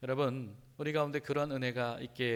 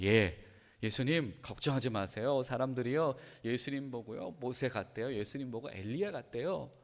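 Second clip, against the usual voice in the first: measured, reassuring imitation of disciples; reporting disciples. Disciples telling Jesus what people say, reassuring. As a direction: calmly report the rumours to the teacher. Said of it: "제자들이 뭐라고 그럽니까?".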